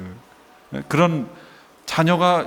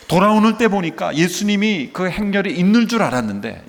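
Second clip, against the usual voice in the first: usual speaking voice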